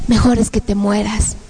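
lightly voiced demonic urging; a demon's measured suggestion; horrible demon voice. Demons urging her toward death, horrible voice. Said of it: "unas voces horribles que decían".

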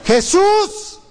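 high-pitched, drawn-out plea; stronger acted cry. Bartimeo urged to cry harder to Jesús, high acted cry. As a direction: call out harder for mercy, stretching the ends. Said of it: "grita más fuerte".

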